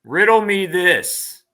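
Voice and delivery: slow, drawn-out riddle delivery; theatrical riddler. Pretend. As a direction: pose the riddle slowly, with a showman's pauses.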